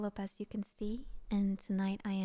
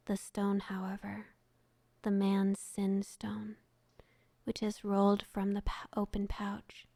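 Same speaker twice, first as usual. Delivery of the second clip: whispered story narration. Acted. Streamer reads a sad story to her chat, whispered narration. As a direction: breathe the tale out gently to listeners.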